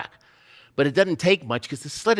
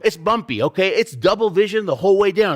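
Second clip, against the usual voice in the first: usual speaking voice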